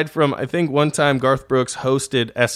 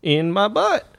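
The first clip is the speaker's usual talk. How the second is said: mock tough challenge; 13 semitones higher, slower than usual. Joking fake fight challenge.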